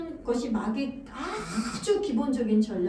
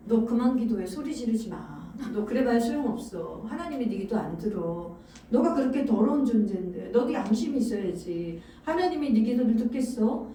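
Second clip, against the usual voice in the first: devil's accusation; 4 semitones lower than usual. Acted. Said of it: "이러한 형태로".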